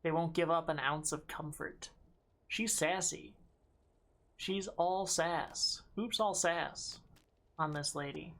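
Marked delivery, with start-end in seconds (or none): 4.4-8.3 slow, drawn-out teasing; teasing drawl. Real, not acted. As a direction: savor every word, amused. Commenting on a sassy character.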